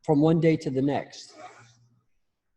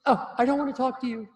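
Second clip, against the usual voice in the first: higher, huffy brush-off voice; mock avoidant; 11 semitones higher, 3 dB louder than usual. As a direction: imitate someone backing away. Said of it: "To say".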